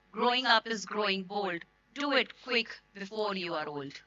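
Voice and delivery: slow, measured poem reading; poem recitation. Acted.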